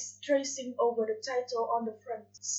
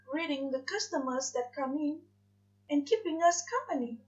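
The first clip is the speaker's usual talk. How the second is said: dreamy angel; 3 semitones higher than usual. Acted. Aziraphale dreams of a cat.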